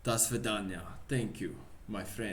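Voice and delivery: put-on parting Russian accent. Pavlov bidding his friend goodbye, Russian accent. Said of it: "I keep losing the accent".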